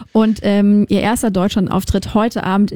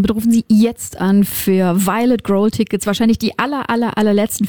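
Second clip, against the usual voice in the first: infomercial. Shown as a demonstration. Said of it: "dann darf ich jetzt die Telefonnummer durchsagen".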